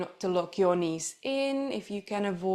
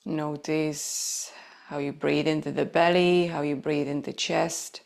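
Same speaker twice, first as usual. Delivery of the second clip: low, unhurried yoga-teacher voice with long pauses; lower, settled meditation delivery, leaving space between instructions; guided breathing meditation; 3 semitones lower than usual. Acted. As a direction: guide them gently into noticing the breath.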